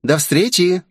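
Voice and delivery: put-on a touch of a huffy girl; snorting. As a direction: sneer at the actress and go. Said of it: "фыркнула Джефф".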